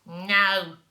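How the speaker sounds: curt no. Acted. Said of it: "said Wee Willie Winkie".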